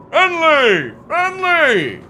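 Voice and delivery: high, loud, whining pleas; mocking whiny player. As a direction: shriek it like a panicking, whining gamer.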